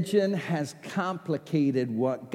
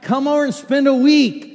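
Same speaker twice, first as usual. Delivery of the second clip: mock invitation; 10 semitones higher, 9 dB louder than usual. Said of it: "That's like".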